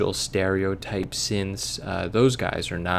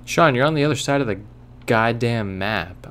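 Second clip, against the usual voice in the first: exasperated; 2 semitones higher, 3 dB louder than usual. Real, not acted. Frustrated at game map.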